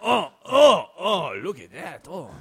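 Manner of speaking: high, loud gasping wonder; mock amazement. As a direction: gasp at a big find. Marveling at pretend mushroom.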